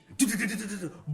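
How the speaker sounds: rapid stuttered noise, then a burst; imitated impact noise. Gamer imitating the battle animation, rattling sound effect. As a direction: rattle out mouth-made hit sounds.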